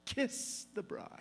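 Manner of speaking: whispered, slow; the officiant's cue, whispered slowly; whispered quote. Retold or imitated. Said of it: "where he says".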